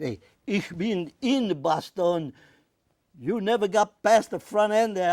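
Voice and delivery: mock-indignant loud retort. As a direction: shout back the comeback to win the argument. Teasing retort to German veteran.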